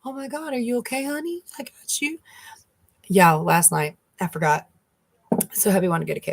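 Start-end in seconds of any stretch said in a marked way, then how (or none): 0.1-2.2 mock sympathetic. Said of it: "And I do it to people".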